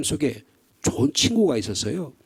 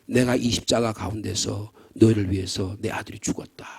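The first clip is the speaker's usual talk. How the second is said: voice of God; 7 semitones lower, 5 dB quieter than usual. Retold or imitated. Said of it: "뭐라고 말씀하셨을까요?".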